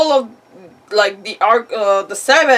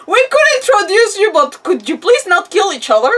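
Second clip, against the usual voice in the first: laughing plea; 10 semitones higher, 6 dB louder than usual. Real, not acted. Teasing plea between rival dragons.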